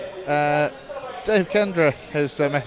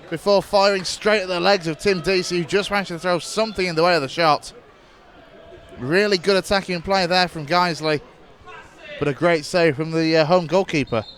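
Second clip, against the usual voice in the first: steady radio match commentary; live play-by-play. Acted. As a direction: call the match as it unfolds.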